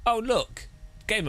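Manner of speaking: high, excited mock shout. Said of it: "we can then go".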